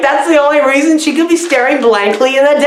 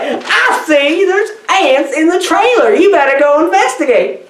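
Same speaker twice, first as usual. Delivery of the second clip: high-pitched, oddball character voice; funny weirdo; 5 semitones higher than usual. Acted. Weirdo reporting ants in the trailer, oddball voice. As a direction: play a comic weirdo. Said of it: "this one was funny, 'cause he's, like, a weirdo".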